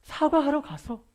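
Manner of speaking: preacher building to a point about apologizing; slow loud build. Real, not acted. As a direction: lean hard into each word.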